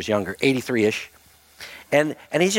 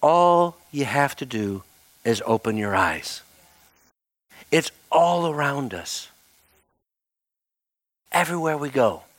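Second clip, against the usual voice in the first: voice of the Lord; slower than usual. Retold or imitated. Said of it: "felt the Lord just say to me".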